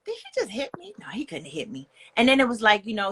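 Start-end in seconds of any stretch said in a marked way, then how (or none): 0.0-0.9 high stunned question, softly; a breathless did-that-just-happen; shocked disbelief. Retold or imitated. To herself after the first hit, stunned and high. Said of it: "At first I was like". 1.0-1.9 hushed whisper to herself; whispered denial. Retold or imitated. Telling herself it's not real, in a whisper. Inner denial after being hit.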